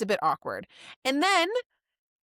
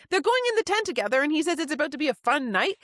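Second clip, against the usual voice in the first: incredulous; 3 semitones higher, faster than usual. Retold or imitated. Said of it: "I'm like".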